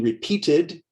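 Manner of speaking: "repeated" ending in an id sound. Shown as a demonstration. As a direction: say "repeated" as three syllables, re-peat-id. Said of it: "the E D sounds like id".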